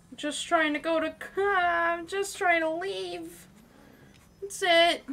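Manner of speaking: laughing exasperation. Real, not acted. Pleading while being chased.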